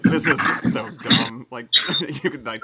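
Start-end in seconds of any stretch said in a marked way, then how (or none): 0.0-1.5 amused annoyance. Acted. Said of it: "deeply annoyed, but has a slight smile".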